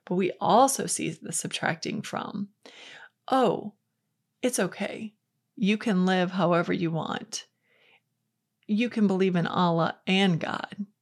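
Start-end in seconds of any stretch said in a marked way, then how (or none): 3.3-10.9 breezy, dismissive reassurance, pitched up at the start; mock permissive voice. Preacher mimicking false teachers with breezy mock reassurance. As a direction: toss off the false comfort lightly.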